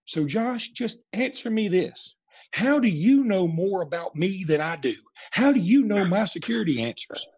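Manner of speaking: high, indignant demand without full volume; mock yell. Retelling Dad grilling Josh about his security answers, mock yell. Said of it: "Dad yelled out".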